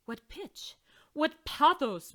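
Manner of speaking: gush, almost in tears; loud tearful admiration; moved exclaiming. Acted. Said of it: "Maestro Provolone cried".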